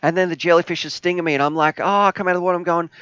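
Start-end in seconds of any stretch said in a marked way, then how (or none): 1.8-1.8 pained yelp. Retold or imitated. Jellyfish stinging, acted reaction. 1.8-2.9 excited retelling. Retold or imitated. Retelling stung in water, excited.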